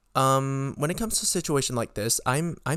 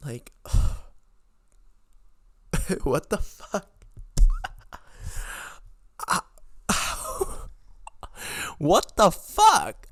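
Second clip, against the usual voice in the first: exasperated laugh; 7 semitones higher, slower than usual. Real, not acted. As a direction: laugh in sheer disbelief then blurt it out.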